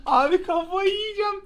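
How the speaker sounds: raging gamer losing it; frustrated outburst. Real, not acted. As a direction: blow up at the game. Losing it over the game.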